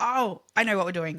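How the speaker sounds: normal talking voice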